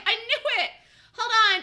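laughing while talking, still loud. Real, not acted. Trader laughing at his own call. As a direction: laugh through the words.

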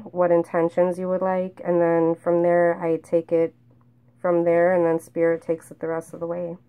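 muffled through a face mask. Real, not acted. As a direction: speak through a mask, dull and covered. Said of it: "I'm sorry if I sound like I'm, like, muffled. It's 'cause I'm wearing a mask".

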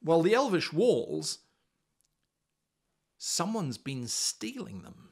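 lightly voiced eager young lad, slowing at the end; a keen young guard sharing a worry; plucky young fellow. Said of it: "plucky young fellow".

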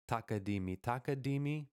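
both takadimis joined without a gap; takadimis all in a row. Shown as a demonstration. Teacher explaining what to play, two takadimis joined in a row. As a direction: run one takadimi straight into the next. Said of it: "all in a row".

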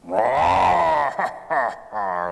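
loud booming lion laugh; lion's laugh. Acted. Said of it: "the lion laughed".

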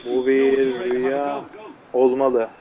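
slow, hushed mock-dramatic; mock dreamy. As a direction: drift into a fake dream voice. (rüyadaymış gibi yavaş, alaycı dramatik ses)

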